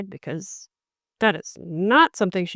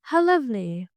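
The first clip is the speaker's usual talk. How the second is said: forced politeness; 4 semitones higher, 3 dB louder than usual. Retold or imitated. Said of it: "puts on this face".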